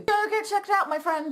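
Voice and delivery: usual speaking voice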